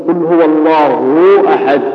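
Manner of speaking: قل هو الله أحد with short u stretched into a waw; over-lengthened vowels. Shown as a demonstration. Teacher showing a recitation error, over-lengthened vowels in هو الله. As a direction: overfill the damma in هو الله. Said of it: "صارت هو الله".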